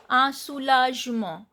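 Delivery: "A soulagement" ending on a nasal vowel; silent T, nasal ending. Shown as a demonstration. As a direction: drop the final T of "soulagement". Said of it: "T is not pronounced and E N sound is A".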